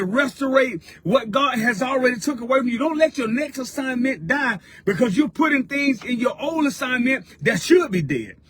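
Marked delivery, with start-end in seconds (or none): 2.8-8.4 building pulpit cry on the repeat; preaching. Acted. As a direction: push it out like a preacher catching fire. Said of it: "I'm preaching already".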